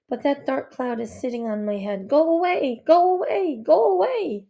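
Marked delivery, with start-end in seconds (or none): 2.1-4.5 louder, higher repeated command; insistent shooing. Acted. Girl ordering the dark cloud away, insistent cry. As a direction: push the words away, building higher.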